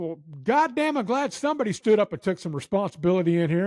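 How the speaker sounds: high, emphatic retold ire; mad drill sergeant. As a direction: lightly imitate a chewing-out. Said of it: "he was mad".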